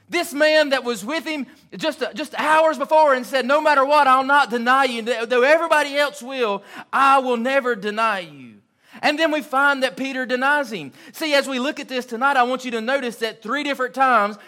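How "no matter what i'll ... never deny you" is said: bold boast. Retold or imitated. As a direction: proclaim it like nothing could shake you. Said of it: "Peter's boast before denial".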